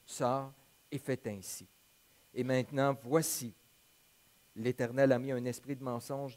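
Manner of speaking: measured Bible narration with lifted quotes; scripture reading. A narrator's reading. Pastor reads the story of Akab's death to the congregation, measured scripture reading. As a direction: read the passage aloud to a congregation, clearly phrased.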